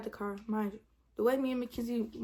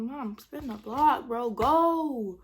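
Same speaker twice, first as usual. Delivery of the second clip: urgent order; 3 semitones higher, 7 dB louder, much slower than usual. Retold or imitated. Urging mama to drive off.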